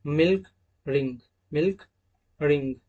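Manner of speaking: milk and ring said clearly as English words; example words demo. Shown as a demonstration. Teacher showing students the short i sound in example words. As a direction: show the short i in मिल्क and रिंग. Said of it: "example".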